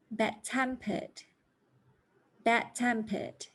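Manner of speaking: slow, model compound stress; stress on second word. Shown as a demonstration. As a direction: read slowly for learners to repeat. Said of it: "these adjectives have three syllables".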